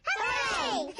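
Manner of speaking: high, loud hooray; excited cheer. Acted. Girl cheers when her picture goes on the wall. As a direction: cheer with delight.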